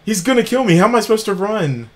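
high, frantic, panicked questions; being chased. Real, not acted. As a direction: panic while fleeing.

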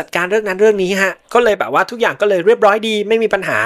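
mildly mocking quote with hesitant fillers; mocking Trump. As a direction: imitate a dismissive put-down, only lightly acted. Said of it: "โดยทรัมป์ได้พูดล้อเลีย".

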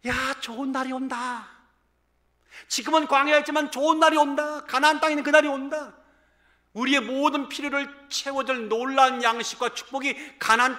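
imitating the Israelites calling out in hope; a hint of an excited crowd, rising loud on the middle lines; lightly voiced people calling out that good days are coming; hopeful Israelites. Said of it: "이렇게 외쳤을 거예요".

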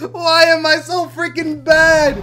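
slow words through laughter; laughing. Real, not acted. Gamer mocks his own bad play, laughing slowly. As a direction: laugh while complaining.

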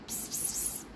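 soft unvoiced psst; psst call. Real, not acted. Owner softly pssting at Rocky. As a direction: hiss softly to get the cat's attention. Hissing to the cat.

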